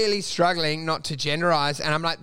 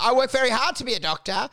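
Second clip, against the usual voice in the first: status-proud doctor; 3 semitones higher than usual. Acted. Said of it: "you got a status and you're like".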